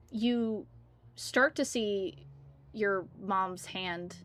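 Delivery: slow, hushed storyteller dropping to a whisper; hushed suspense. A narrator's reading. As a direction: lean in and let it creep. Tense horror narration builds.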